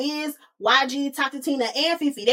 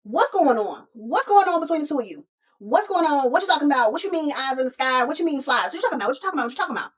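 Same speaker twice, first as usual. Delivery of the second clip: mock confrontation; 3 semitones higher, faster than usual. Fifi confronts the Wiz and Tina, lightly heated. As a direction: press them for answers, mock heated.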